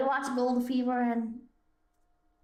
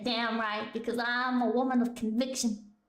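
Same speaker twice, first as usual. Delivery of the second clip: mock conviction; 5 semitones lower than usual. Her own comeback in the skit.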